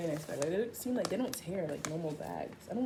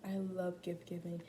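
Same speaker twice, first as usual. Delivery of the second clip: awed; much slower than usual. Retold or imitated. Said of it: "And I was like".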